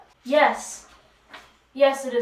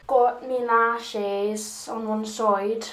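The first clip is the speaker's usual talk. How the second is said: drawn-out, accidental Scottish lilt; Scottish accent; slower than usual. Real, not acted. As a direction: slip into a rough Scottish accent. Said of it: "I sounded kinda like a Scottish person".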